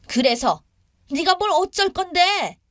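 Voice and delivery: mother-in-law's high-pitched retort; indignant challenge. Acted. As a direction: dare her to answer back. Mother-in-law challenges her back.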